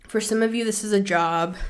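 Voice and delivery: breathless talk; out of breath. Real, not acted. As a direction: speak short of breath. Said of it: "I'm so out of breath".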